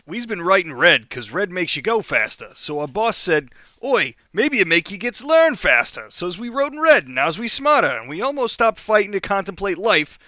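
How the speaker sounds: loud, high, swooping Cockney orc voice. Acted. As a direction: bellow it like a dim Cockney orc telling his tale. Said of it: "And the orc says".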